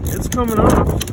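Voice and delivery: excited high exclaim. Real, not acted. Part suddenly comes loose.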